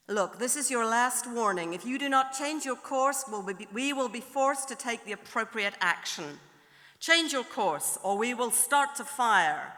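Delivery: American captain's last warning, firmly acted; slight American accent. American captain giving a last warning, firm slight American accent. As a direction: build to a threat in a mild American accent. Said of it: "do a slight American accent".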